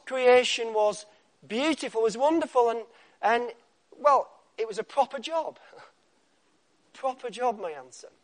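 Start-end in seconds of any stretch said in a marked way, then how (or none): 4.0-7.6 mock Cornish. Shown as a demonstration. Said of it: "Not very good at Cornish".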